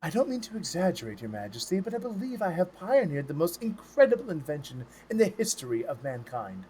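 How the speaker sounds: hushed, rushed eager courtier; eager breathless servant. Acted. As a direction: gush about the invention softly. GM voices eager grandee.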